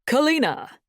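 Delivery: loud, high call from afar; booming call. A narrator's reading. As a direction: call her name across the yard. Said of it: "a booming voice cried out".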